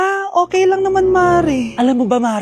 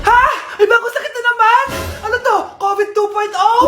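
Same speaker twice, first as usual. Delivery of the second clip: mock alarmed question; 5 semitones higher than usual. Mother alarmed by news.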